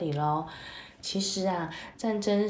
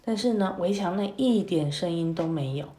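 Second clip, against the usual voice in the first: put-on lively, expressive story voice for kids; storytelling to children; 2 semitones higher, 3 dB louder than usual. A narrator's reading. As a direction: read it like a bedtime tale for little ones.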